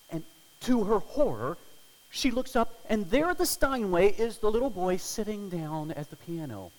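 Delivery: high, loud, breathless storytelling; rising excitement. A narrator's reading. Preacher to his congregation, a high, loud, thrilling climax. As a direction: build it up like a thriller.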